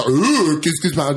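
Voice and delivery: hammed-up French-accented exclamation; exaggerated French accent. Shown as a demonstration. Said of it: "den där överdrivna".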